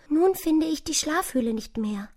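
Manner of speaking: hohes, klagendes Mäusestimmchen; klagende kleine Maus. A narrator's reading. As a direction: lament in a small high mouse voice. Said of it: "klagte sie". (klagend, mit hoher Mäusestimme)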